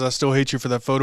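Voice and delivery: ordinary talk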